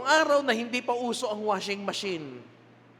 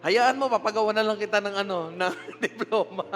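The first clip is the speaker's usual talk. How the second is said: laughing teacher; 2 semitones higher, 3 dB louder than usual. Retold or imitated. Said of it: "teacher laughing apology".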